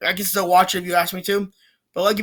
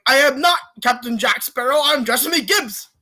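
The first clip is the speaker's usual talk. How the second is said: pirate posing as judge; 4 semitones higher than usual. Retold or imitated. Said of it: "he impersonates a judge".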